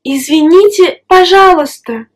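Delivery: извините, пожалуйста said carefully and politely. Shown as a demonstration. A teacher shows how to be very polite to a stranger. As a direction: ask with extra courtesy. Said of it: "Pour être très poli".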